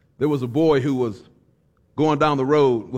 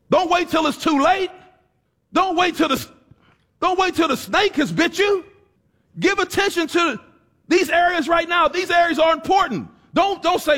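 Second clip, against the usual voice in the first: higher, pressing preacher's warning; full-force preaching; 12 semitones higher than usual. Acted. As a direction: drive the warning home from the pulpit.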